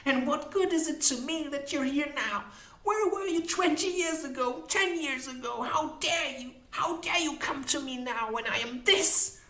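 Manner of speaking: high-pitched, aggrieved woman's voice; bitter Molly. Acted. Molly blaming the unicorn for lost years, bitterly indignant. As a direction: reproach bitterly, pitched far above narration.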